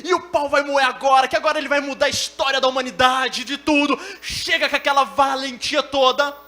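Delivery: loud preaching, rising in pitch; pregação inflamada. Real, not acted. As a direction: build momentum, mocking the bravado. (pregação crescente, em voz alta)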